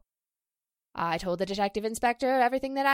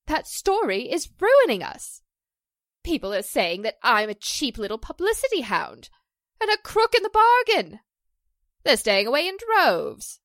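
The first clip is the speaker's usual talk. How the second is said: rising distress, climbing higher and louder into a cry; distressed actress protesting the scandal, high and loud; upset outcry; 3 semitones higher, 5 dB louder than usual. Acted. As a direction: near tears, protesting a rumour that ruins her. Actress says scandal ruins her show.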